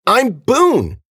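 high, loud pleading cry; desperate insistence. A narrator's reading. Girl repeats identity to friend, desperate and loud. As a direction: cry the name out to be believed.

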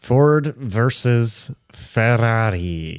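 put-on slow stretched Italian accent; a hint of Italian accent on Ferrari. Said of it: "that's a good Italian accent right there".

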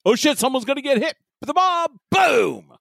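high-pitched panicked warning into a shouted boom; mock panic. Co-host mocks a too-late psychic warning, panicked. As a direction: blurt a hammed-up last-second alarm. Acts out last-second warning, explosion.

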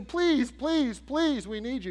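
high-pitched mock pleading; acted begging. Retold begging to Jephthah.

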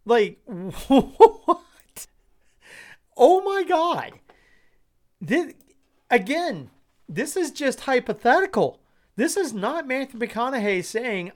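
high, loud, breaking into laughter through the words; can't stop laughing at the poll; laughing hard. Real, not acted. Host cracking up at the poll numbers, laughing through words. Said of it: "I am laughing so hard".

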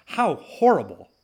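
slow, high, dripping mock horror; drawn-out fake dismay; sarcastic. Sarcasm at news headline.

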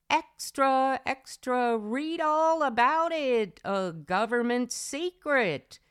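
put-on old-time newsboy calling out; rapid old-time reporter. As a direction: hawk the headlines like a newsboy. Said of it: "I feel like a corner newsboy ... screaming at the top of my lungs".

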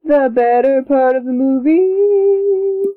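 slow, drawn-out announcer-style "The better part of the movie"; "The better part of the movie" said slowly and grandly, in mock-epic tone; mock dramatic. Shown as a demonstration. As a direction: stretch every word of "The better part of the movie" like a trailer voice. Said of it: "plain take before".

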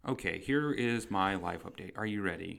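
monotone voice. Shown as a demonstration. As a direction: drone it out in monotone. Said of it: "talk in a super monotone voice today".

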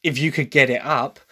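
light Cockney Essex twang on the quote. Retold or imitated. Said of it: "the Cockney Essex twang added into that".

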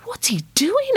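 hushed, unvoiced storytelling; whisper. Narrator and girl watching the window, whispering. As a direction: whisper so the piper won't hear. Spying on the bagpiper at night.

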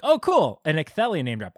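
a lore nerd's happy squeal at a name drop; retold excitement. Fan recalls spotting the Ecthelion name drop, excited and high. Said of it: "I was like".

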